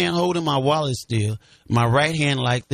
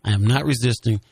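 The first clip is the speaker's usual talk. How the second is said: measured, unraised protest; retold in a controlled, lower voice; demonstrated calm voice; 3 semitones lower than usual. Shown as a demonstration. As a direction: show how evenly you pleaded with the officers. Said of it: "I'm saying it in this voice".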